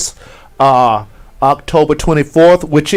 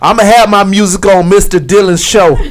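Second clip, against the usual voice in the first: laughing while quoting; 9 semitones higher, 8 dB louder than usual. Retold or imitated. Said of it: "he always critiqued the music".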